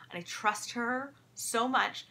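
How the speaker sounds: ordinary talk, nothing marked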